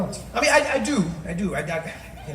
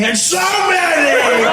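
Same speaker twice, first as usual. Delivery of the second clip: loud, slow swoop up high; Donald Trump, high take; 8 semitones higher, 7 dB louder, much slower than usual. Acted. President in a speech, suddenly high stretched voice. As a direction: leap up in pitch and hold the vowels. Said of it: "It was always high".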